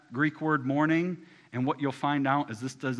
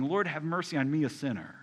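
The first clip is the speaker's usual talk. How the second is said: pleading; 3 semitones higher than usual. Acted. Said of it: "they're just pleading".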